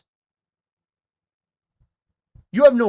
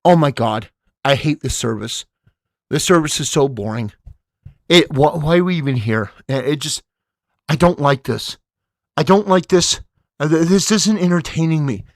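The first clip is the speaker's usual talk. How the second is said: low-pitched grumbling, not truly whispered; mock whispered griping; 5 semitones lower, 4 dB louder than usual. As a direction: mimic a bored husband griping to his wife. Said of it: "He's whispering to his wife".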